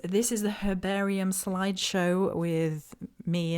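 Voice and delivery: slow, measured newsreader announcement; newscaster voice. Pretend. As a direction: read it like a TV anchor. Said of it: "in my newscaster voice".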